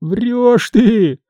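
high-pitched mild wail; tearful protest. A narrator's reading. Nikishka answers his teasing master, mildly tearful. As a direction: protest in a lightly acted whine. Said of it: "плачущим голосом отозвался Никишка".

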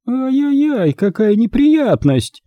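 high, drawn-out tut-tutting; haughty aunt's hollow sympathy; mock concern. A narrator's reading. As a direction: coo with false sympathy, high and slow. Aunt feigning concern over wounded dog.

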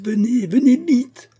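high, loud desperate call; urgent shout. A narrator's reading. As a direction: yell for him to hurry. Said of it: "cria Aramis".

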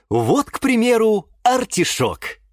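upbeat, lifted TV-host delivery; cheerful presenter. A narrator's reading. Host showing viewers an artichoke, cheerful. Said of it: "весело сказал ведущий".

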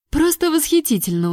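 high sarcastic praise; mock delight with a smirk; sarcastic high exclamation. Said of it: "усмехнулась я".

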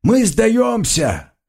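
high desperate surrender shouts; shouting. A narrator's reading. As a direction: yell to surrender, pleading. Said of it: "крича и поднимая вверх пустые руки".

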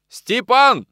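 high, loud ringing call across the yard; ringing shout. A narrator's reading. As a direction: shout for the coachman. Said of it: "звонко закричал он". (звонко крикнуть на весь двор)

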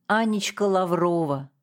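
ordinary delivery, nothing marked

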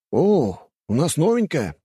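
mocking rich student; smug young man. A narrator's reading. Aristocrat student voiced.

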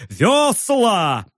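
high, ringing shouted order; roaring command. A narrator's reading. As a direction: bark the order over the wind. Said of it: "взревел он".

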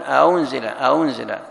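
أنزل with the second hamza between pronounced and dropped; eased hamza. Shown as a demonstration. Teacher demonstrating tashil to the class. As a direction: soften the hamza in أنزل, neither hard nor gone. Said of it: "لا تظهر الهمزة بقوة".

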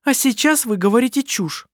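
loud, high, sharp retort; angry retort. Acted. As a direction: snap back in anger. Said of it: "оборвала его Керстин".

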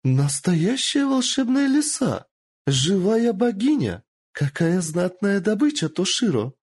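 greedy lord. Acted. Lord boasting to the captain of his prize, thrilled. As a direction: gloat over a rare prize.

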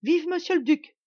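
scornful mock cheer for the duke; imitating a cheer. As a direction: mimic the beggars' fawning shout. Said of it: "en criant".

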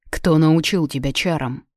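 ordinary delivery

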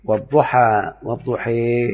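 والضحى drawn out, the final alif bent toward ee; slow teacher demo of والضحى with imala. Shown as a demonstration. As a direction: say والضحى slowly with the end tilting to ya. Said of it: "ده الإمالة الكبرى".

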